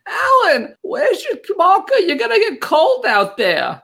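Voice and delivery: put-on high-pitched New York Jewish mother accent; Upper West Side Jewish mother accent. Mother fussing at Alan about the cold, in high New York Jewish accent. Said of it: "The Upper West Side Jewish mother accent".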